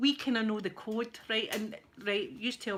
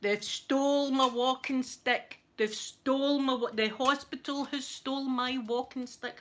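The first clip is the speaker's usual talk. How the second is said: put-on drunk complaint; 3 semitones higher, 3 dB louder, slower than usual. Drunk man complaining the hospital stole his stick, slow. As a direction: whine about the stolen stick. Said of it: "He was going".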